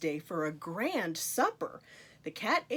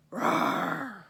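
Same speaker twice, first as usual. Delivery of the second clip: playful roar; 5 semitones higher, 4 dB louder than usual. Pretend. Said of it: "Can you roar?".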